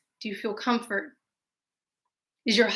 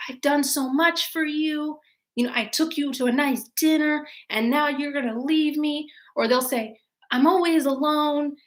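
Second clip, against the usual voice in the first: mock guilt-trip; 4 semitones higher than usual.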